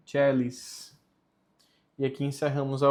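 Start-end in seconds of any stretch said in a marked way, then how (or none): 0.1-1.0 "celis" opening on a CH sound, CHEH-lis; C as "tche". Shown as a demonstration. Teacher showing learners how C sounds before E, "celis" said CHEH-lis. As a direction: start "celis" with "tche", as in Church Latin. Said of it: "o som é tche".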